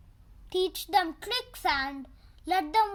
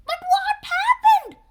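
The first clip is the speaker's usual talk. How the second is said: demanding chief; 11 semitones higher, 7 dB louder than usual. Acted. Chief demands answers at hospital.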